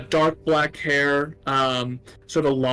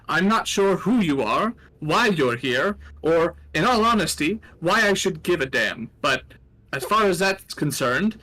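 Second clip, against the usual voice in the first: higher, scornful gnome voice; contemptuous gnome; 4 semitones higher than usual. Acted. Old gnome to the newcomers, scornful. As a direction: sneer down from the machine. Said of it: "and goes".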